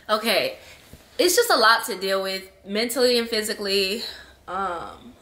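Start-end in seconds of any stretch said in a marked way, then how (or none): none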